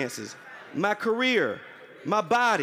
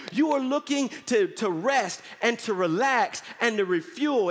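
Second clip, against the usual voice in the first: fired-up preaching; 3 semitones higher than usual. Acted. Pastor rousing the congregation to expect breakthrough, full-force preaching.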